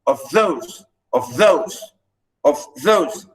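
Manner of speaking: of those repeated with weak of, strong THOSE; weight each THOSE in of those; iambic stress. Shown as a demonstration.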